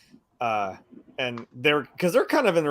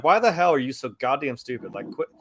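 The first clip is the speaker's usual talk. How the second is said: exasperated retold yell, barely raised; mock yelling. Man berating a woman over her stupidity, mildly mock-yelled. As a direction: imitate him berating her, half-hearted. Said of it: "when he's yelling at her".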